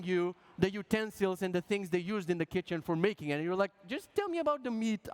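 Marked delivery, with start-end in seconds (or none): 3.9-5.1 higher-pitched mock impatience; impatient diner. Diner to over-explaining waiter, mock impatient. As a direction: cut in, pleading to get to the point.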